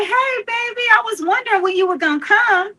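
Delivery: high, sweet grandmother greeting; grandma's voice. Retold or imitated. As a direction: sing it up high like a loving grandma. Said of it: "She was like".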